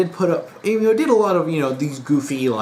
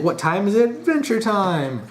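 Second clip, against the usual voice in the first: lightly imitated cartoon rallying cry; cartoon catchphrase; 6 semitones higher than usual. Finn and Jake fist bumping, imitated catchphrase call. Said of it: "Finn and Jake fist bumping going".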